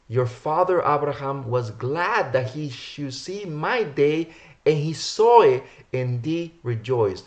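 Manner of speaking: drawn-out, weighted verse reading; emphatic scripture reading. Acted. Preacher quotes the Mashiach's words to listeners, emphatic scripture reading. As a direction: declaim it, stretching the ends of phrases.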